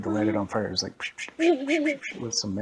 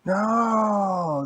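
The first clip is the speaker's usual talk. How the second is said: high, loud, long angry no; hammed-up outraged cry; mad refusal; 10 semitones higher, 8 dB louder than usual. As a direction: wail the refusal in mock fury. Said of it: "he was getting madder".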